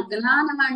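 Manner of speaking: "జ్ఞాన" as "gnaana", with a plain n; "జ్ఞాన" begun with a g-n cluster; North Indian pronunciation. Shown as a demonstration. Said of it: "north Indians పలుకుతారు".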